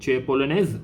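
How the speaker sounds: "Tu es polonaise" with the last word lifted as a question; question intonation. Shown as a demonstration. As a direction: ask "Tu es polonaise" through tune alone. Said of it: "You are using the intonation form".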